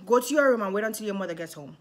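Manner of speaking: dad sends his daughter to her room, stern and fast; firm dad order. Retold or imitated.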